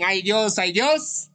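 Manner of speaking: high mock cries to God; hammed-up worshippers calling on God; imitated churchgoers' pleading. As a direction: mimic pious wailing, rising each time. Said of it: "van a la iglesia y dicen".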